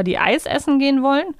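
ordinary talk, nothing marked

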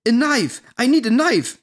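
desperate shout for a knife; shouting over noise. Retold or imitated. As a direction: push it over the blaring music. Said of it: "Schreie ich gegen den Lärm an".

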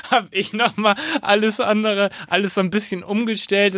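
high, laughing narration; real laughter breaking into the sentence; laughing while talking. Real, not acted. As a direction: keep telling it through a laugh.

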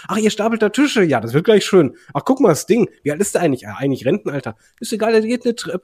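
aufgedreht und höher, voller Vorfreude; begeistertes Anfeuern. Retold or imitated. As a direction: feuer die Verrücktheit jubelnd an. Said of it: "du sagst einfach nur so". (begeistert anfeuernd)

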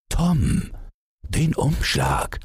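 high, stern paternal command; stern call. A narrator's reading. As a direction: call the child to order, drawing out the words. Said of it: "rief der Vater streng".

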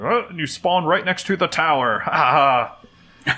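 smug taunting game master; mocking GM voice. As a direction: gloat like a smug GM. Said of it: "this is when Jake's like".

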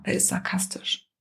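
"Er ist sarkastisch" breathed as an unvoiced whisper; inward whisper. Shown as a demonstration. Coach feels into the client's thought, whispering inwardly. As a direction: whisper it to yourself, feeling into it. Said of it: "so da reinspüren".

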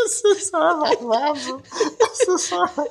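slow, high, laughing words; stifled giggles. Real, not acted. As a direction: choke back the giggles. Laughing while trying to speak.

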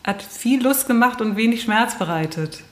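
raspy, rough-throated thanks; hoarse voice. Real, not acted. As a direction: let the hoarse rasp come through. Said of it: "mit rauer Stimme sage ich".

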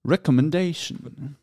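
Recommendation langsam, jede Silbe deutlich; langsam vorgesprochen. Shown as a demonstration. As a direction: sprich Recommendation wie ein Lehrer vor. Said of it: "Unit one". (Recommendation langsam und deutlich vorgesprochen)

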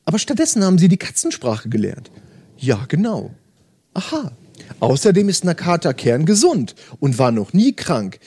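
steady audiobook narration with light character voices; story reading. Acted. Host reading Murakami to podcast listeners, calm narration. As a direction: read the novel passage aloud, calm and even. Reads novel aloud, resumes.

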